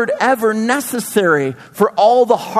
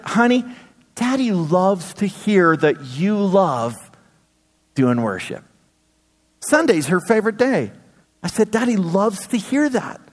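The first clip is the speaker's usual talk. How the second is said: tender dad; 3 dB quieter than usual. Retold or imitated. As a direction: gently praise your child.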